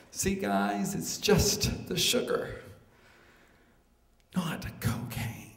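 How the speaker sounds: slow, hushed and breathy; calmed-down reassurance. Acted. Sugar addict soothes friends after the fix, hushed. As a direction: ease down, fading to near whisper.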